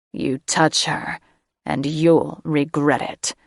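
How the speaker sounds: a hint of a deep dragon, slow on the threat; lightly voiced dragon baritone. Drake shielding Sarah from Catherine, lightly deep threat. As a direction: growl a slow warning as a dragon. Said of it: "in a deep, dragon baritone".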